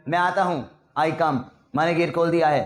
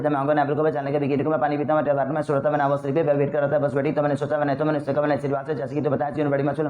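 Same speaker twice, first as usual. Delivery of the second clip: rapid breath round. Shown as a demonstration. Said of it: "एक बार फिर लो".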